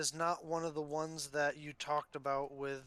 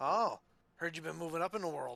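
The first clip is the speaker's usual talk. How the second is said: put-on voice of an aging old man; 2 semitones higher than usual. Voicing the old stable master greeting a returning player: old stable master voice. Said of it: "you see the old stable master ... and he says".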